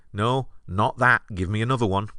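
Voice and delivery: mock-impatient refusal of a suggestion; dismissive rejection. Comic refusing the audience's suggestions, dismissive.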